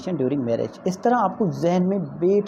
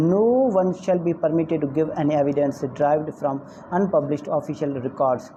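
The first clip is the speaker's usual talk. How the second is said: reading the law word by word, slowly; slow statute reading; 2 semitones lower, much slower than usual. Acted. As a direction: spell out the legal text carefully. Reads statute text aloud. (क़ानून की धारा धीरे-धीरे पढ़ना)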